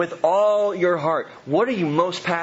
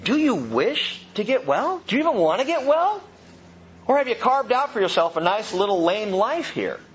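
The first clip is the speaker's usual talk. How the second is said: pointed personal question; 5 semitones higher than usual. Retold or imitated. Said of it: "very pointed personal question".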